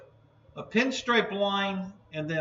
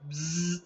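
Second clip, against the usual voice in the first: bee buzz. Shown as a demonstration. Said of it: "I'll do a bee sound".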